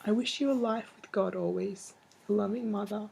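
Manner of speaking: tender, steady letter reading; reading a letter aloud. Shown as a demonstration. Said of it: "I'll read you one".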